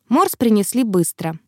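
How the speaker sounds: usual speaking voice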